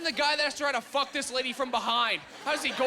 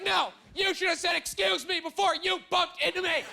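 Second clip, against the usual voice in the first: 1 scolding lady; 6 semitones higher than usual. Retold or imitated. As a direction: lecture him in a shrill outrage. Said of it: "She's like".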